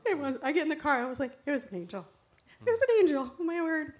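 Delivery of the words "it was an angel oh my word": high, loud burst of amazement; astonished outburst. Acted. Woman in the car realizing she met an angel, high loud amazement. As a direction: exclaim it as the realization hits.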